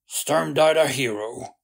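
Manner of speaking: Sturm died a hero loudly; loud, proud. Acted. Flint insists proudly.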